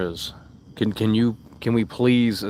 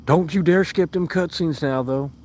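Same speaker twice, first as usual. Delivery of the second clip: slow, higher sarcastic mimic of the other side; mock them in a slow, raised whiny voice; mocking impression; 7 semitones higher, slower than usual. Streamer mocking chat's hypocrisy in a slow mimic. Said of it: "turning the tables like".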